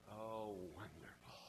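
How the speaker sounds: low, soft and slow sarcasm; deadpan the bad news; sarcastic. Husband hearing garage news, flat sarcastic reply.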